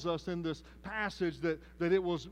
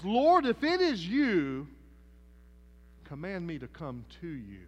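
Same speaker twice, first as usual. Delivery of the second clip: Peter calling out; 7 dB louder than usual. Acted. Peter calls out to Jesus.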